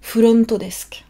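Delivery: "Furonto desk" with the extra vowels sounded out, fu-ron-to; over-articulate "Furonto desk" Japanese style; exaggerated katakana English. Shown as a demonstration. Teacher repeating the Japanese hotel word for learners. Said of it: "c'est comme si on articulait exagérément".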